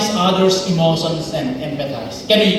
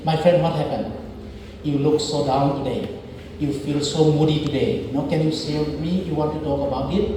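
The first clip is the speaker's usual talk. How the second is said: soft caring questions, softer; gentle concern; 5 dB quieter, faster than usual. Shown as a demonstration. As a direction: coax a sad friend to open up. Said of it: "you are saying".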